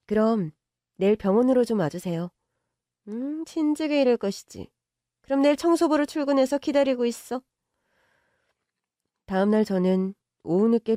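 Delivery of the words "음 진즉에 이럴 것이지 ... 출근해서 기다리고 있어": higher, self-satisfied; pleased she finally gave in; smug rich mother. Acted. Mother satisfied the girlfriend yields, smug.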